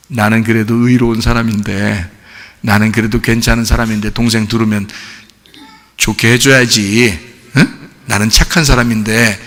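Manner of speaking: low, soft, subdued musing; quiet self-talk. Acted. Churchgoer privately thinks himself a good person, low quiet self-talk. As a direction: think it aloud to yourself, keeping it down.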